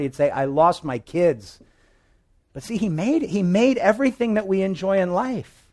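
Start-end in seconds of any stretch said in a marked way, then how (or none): 0.3-1.6 slow, understated heartbroken line; broken heart. Retold or imitated. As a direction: let it drop slowly, grieving. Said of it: "in his broken heart".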